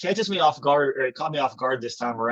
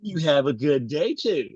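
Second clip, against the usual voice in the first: imitated mock-polite sign-off; 3 semitones higher, slower than usual. Annoyed clerk ending a phone call, imitated mocking. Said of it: "he's, like, mocking them over the phone".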